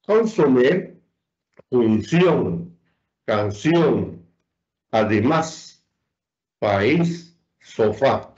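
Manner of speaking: consomé, función, canción, además, país, sofá, each weighted at the end; stress on final syllables. Shown as a demonstration. Teacher lists examples, consomé to sofá stressed on last syllable. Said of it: "la regla general de acentuación".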